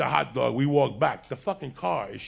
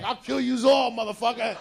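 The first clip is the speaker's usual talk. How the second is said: high, loud imitation of her rage; acted threatening shout; 9 semitones higher, 3 dB louder than usual. Woman threatening the men from the back, high mock shout. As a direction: hurl the threat in a pitched-up yell.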